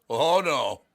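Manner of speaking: customer insisting. Retold or imitated. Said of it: "He goes".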